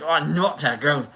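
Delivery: lightly put-on Scottish voice; playful hint of Scottish; Scottish accent. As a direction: say it with a mock Scottish lilt. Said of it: "It's going to Scottish".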